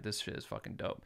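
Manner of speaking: awed whisper; hushed, amazed whisper. Retold or imitated. Awed whisper about New York.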